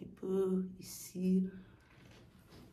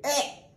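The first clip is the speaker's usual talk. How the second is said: strangled cry; 7 semitones higher, 4 dB louder than usual. Shown as a demonstration. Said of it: "Chanter comme ça, essayez".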